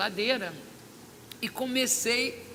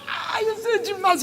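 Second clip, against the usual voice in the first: joyful shout; 10 semitones higher, 6 dB louder than usual. Retold or imitated. Overjoyed praise, shout heard.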